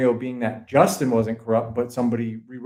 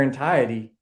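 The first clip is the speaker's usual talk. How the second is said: Boston accent. Real, not acted. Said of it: "my ba-, Boston accent came out".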